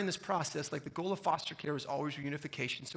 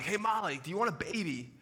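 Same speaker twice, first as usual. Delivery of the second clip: raised voice, calling across a distance; retold yell; 3 semitones higher, 4 dB louder than usual. Husband calls to wife across a parking lot, retold yell. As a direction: call out to someone far off, half yelling. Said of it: "I yell across the parking lot".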